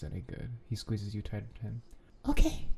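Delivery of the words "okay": tiny high-pitched squeak. A narrator's reading. Sleepy reply to Danny in bed, high squeak. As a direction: squeak out a quick agreement. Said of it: "is all you can squeak out with a yawn".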